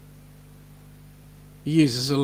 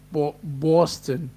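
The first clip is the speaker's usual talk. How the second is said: put-on Boston accent; slower than usual. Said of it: "as John goes".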